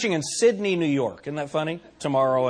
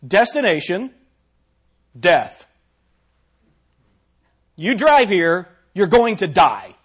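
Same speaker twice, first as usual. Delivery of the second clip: louder, flat machine announcement of doom; a hint of a robotic GPS voice; mock GPS voice; 6 dB louder, slower than usual. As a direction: play the sat-nav reading out a death sentence. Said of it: "my G P S says".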